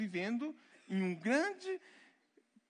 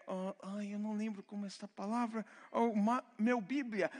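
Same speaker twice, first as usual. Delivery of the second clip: mock forgetful expat. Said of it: "aquele brasileiro que chega e fala".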